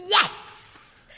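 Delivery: loud, high-pitched cheer; excited cheer. Retold or imitated. Vendor answering a child's yell from across the market, excited high shout. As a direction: shout back in delighted triumph.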